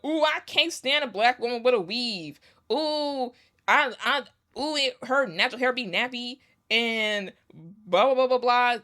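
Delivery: high, sneering mock voice; mocking prejudiced guy. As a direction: sneer like a snobby gossip.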